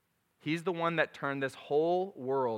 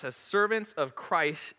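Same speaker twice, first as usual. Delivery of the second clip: put-on baby voice; 3 semitones higher, slower than usual. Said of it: "I got baby voice going".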